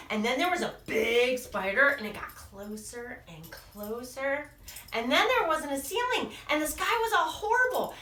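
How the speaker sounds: mock anxious little monster; building worry. Little Monster's fears escalate.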